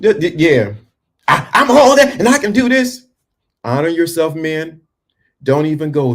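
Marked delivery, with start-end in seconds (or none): 1.3-3.1 very high, loud mock bragging shout; mocking loud yellers. Mocking people who yell how capable they are. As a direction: ham up a blustering braggart. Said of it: "All those people yelling".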